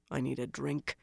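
low, thick, slurred mutter. Acted. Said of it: "muttered thickly".

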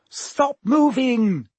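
loud, high, slow command; ordering. A narrator's reading. Hermione ordering the trapped boys, loud slow command. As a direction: freeze them with the order. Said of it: "Hermione ordered them".

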